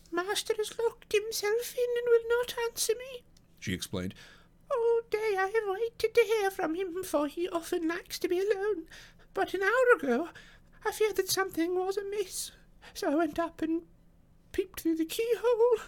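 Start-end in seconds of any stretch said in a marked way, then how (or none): 0.1-3.2 put-on very high old-woman voice; distressed housekeeper. A narrator's reading. Housekeeper explains the master's silence, anxious high voice. 4.7-15.8 put-on very high old-woman voice; distressed housekeeper. A narrator's reading. Housekeeper explains the master's silence, anxious high voice.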